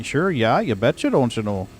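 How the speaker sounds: a light Upper Midwest North Dakota lilt; North Dakota accent. Shown as a demonstration. Showing friends how her North Dakota accent comes back, light North Dakota accent. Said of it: "my North Dakota".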